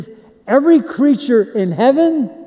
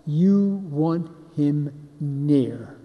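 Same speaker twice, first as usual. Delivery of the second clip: soft; 6 semitones lower, 8 dB quieter, much slower than usual. Real, not acted. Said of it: "sermon close".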